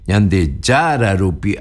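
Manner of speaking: yande YARA rupi, stress on yara. Shown as a demonstration. Teacher showing the stress on yara. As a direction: lean on yara, keep rupi light. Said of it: "acentúe en yara".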